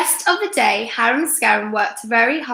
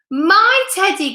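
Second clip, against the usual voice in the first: high, slow gasp of joy; 8 semitones higher, 4 dB louder, slower than usual. A narrator's reading. Wolf spotting his lost Teddy, a high slow gasp. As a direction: breathe it out in astonishment. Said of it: "gasped Harum Scarum".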